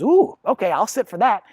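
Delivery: high, eager dog suddenly agreeing. Retold or imitated. Dog spots the treat and agrees, high and eager. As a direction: play the dog perking up at the treat. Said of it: "the dog goes".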